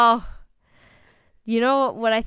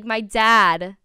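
put-on Jersey accent; 6 dB louder than usual. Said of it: "she goes, like".

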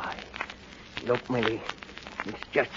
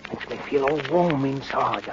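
entranced; 3 semitones lower, 3 dB quieter than usual. Acted. Entranced by the cursed knife.

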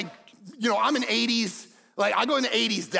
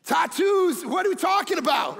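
voicing Jesus; 6 semitones higher, 3 dB louder than usual. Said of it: "Jesus is like".

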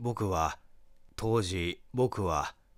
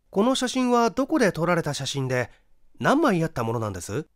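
higher, louder, probing detective questioning; a touch of detective bluster, raised pitch; slight detective tone; 8 semitones higher, 6 dB louder, faster than usual. Acted. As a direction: interrogate like a detective, quick at the end. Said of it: "ちょっと探偵口調になって言った".

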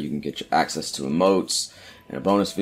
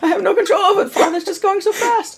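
laughing; 6 dB louder than usual. Real, not acted. Voice cracks up laughing.

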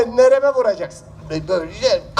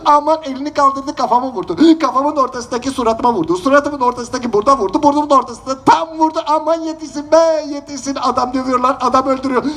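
hammed-up cry for help; 5 semitones higher than usual. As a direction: wail it out like a beaten man calling for help. Wailing for help in street.

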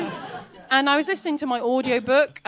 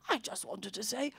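hushed, careful murmur, much softer; creepy stranger; 3 semitones lower, 10 dB quieter than usual. Retold or imitated. Staring man on a train to a passenger, creepy soft voice. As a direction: say it softly, as a confidential compliment.

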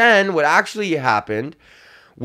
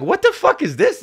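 high shocked what the fuck, much higher; shocked squeal. Retold or imitated. Opening a box of bondage gear, shocked squeal. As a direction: squeak it out in disbelief. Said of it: "I was like".

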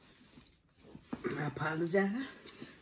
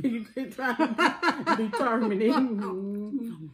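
laughing; 5 semitones higher, much slower than usual. Real, not acted. Teasing while laughing.

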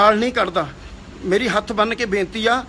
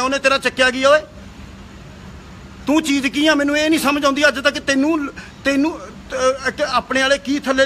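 higher, raised, exasperated questions; angry rebuke; 3 semitones higher than usual. Real, not acted. Defending fellow singers to the rival, raised and heated. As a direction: demand what he has against them. Scolding rival over a singer.

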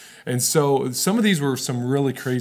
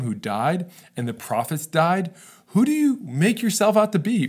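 indignant challenge. Retold or imitated. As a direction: demand it like offended religious rulers. Pharisees challenge Jesus angrily.

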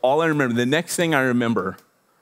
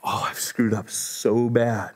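retold remorse; 3 semitones lower, 4 dB quieter, slower than usual. Remorse at wife crying, retold.

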